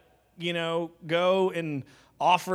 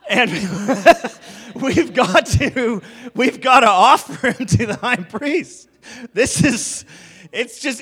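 high, loud hammed-up pleading through laughs; mock distraught husband; 7 semitones higher, 9 dB louder than usual. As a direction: plead with your wife, over the top, half laughing. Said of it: "it would be like".

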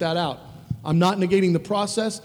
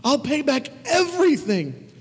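begged; 9 semitones higher than usual. A narrator's reading. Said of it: "he begged".

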